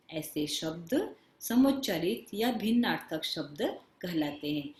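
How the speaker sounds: slow, deliberate textbook reading; definition read-out. Real, not acted. Teacher reads a definition to children, slow measured read-out. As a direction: read it slowly, phrase by phrase with pauses.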